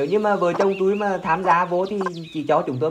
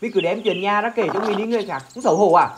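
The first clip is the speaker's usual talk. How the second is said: angry rebuke; 4 semitones higher than usual. Acted. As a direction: shame her for airing the trouble. Husband berates wife before guest.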